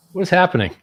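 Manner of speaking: high, loud disbelieving cry; incredulous outburst. Retold or imitated. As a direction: streamer retells a hostile livestream ambush, loud disbelief. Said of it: "I'm like".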